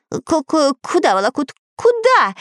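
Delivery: stuttering, then a high panicked cry; stammering fright. Acted. Parrot backing away from curtains, stammering then shrieking in terror. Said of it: "спросил попугай".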